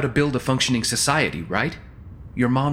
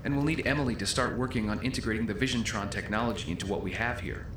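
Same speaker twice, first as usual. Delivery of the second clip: distant muffled voices; overheard through a door; 9 dB quieter than usual. Acted. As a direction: heard from outside the room.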